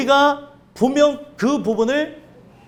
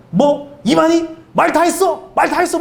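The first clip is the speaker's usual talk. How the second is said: retelling an outraged elder who snaps back; angry outburst; 5 semitones higher than usual. Retold or imitated. Older cult member snapping at the pastor in outrage. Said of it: "막 이런 거예요".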